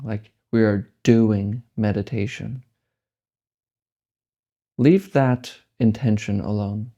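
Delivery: slow, measured guiding with long pauses; spacious, deliberate meditation-teacher delivery; guided meditation. Real, not acted. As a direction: lead a meditation unhurriedly, leaving space between phrases.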